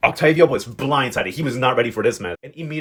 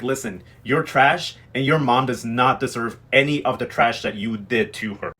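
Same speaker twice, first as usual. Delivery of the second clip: slow, emphatic mock telling-off; retold pissed-off; 2 semitones lower, slower than usual. Recapper quoting old lady insulting her rival, slow imitated anger. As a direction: lay out the insult word by word, mildly angry. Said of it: "Old Lady Gladys was pissed".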